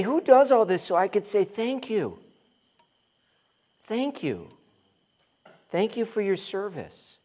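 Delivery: high eager thanks in a mock voice; mock grateful churchgoer.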